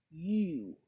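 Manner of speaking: retelling a woman confronting a pipe smoker; accusing lady. Retold or imitated. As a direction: demand it like an offended stranger. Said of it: "she goes".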